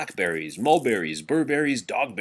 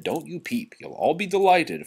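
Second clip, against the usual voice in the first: high, eager duchess voice, rising loud on delighted; a thrilled duchess shushing her kitchen staff; excited duchess; 8 semitones higher, 4 dB louder than usual. A narrator's reading. Duchess tells the kitchen help to stay away, excitedly.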